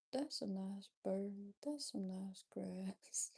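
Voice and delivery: slow, lightly voiced old person; idle old-timer remarks, drawn out slowly. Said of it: "acting like an old person".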